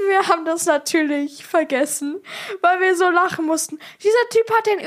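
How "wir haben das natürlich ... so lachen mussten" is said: laughing while telling. Real, not acted. Laughing retelling capsized canoe.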